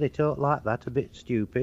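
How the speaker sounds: mock Lancashire accent. Shown as a demonstration. Comedian showing the host how Lancashire talks, Lancashire accent. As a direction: lightly caricature a Lancashire speaker. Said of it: "And then Lancashire".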